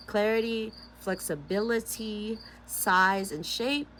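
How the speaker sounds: measured book-reading voice; lightly performed self-help reading; reading aloud. Acted. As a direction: read the passage out earnestly. Reads book again.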